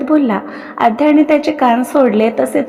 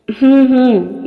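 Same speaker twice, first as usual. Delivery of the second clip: throat clearing; slower than usual. A narrator's reading. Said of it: "घसा ठीक करतच".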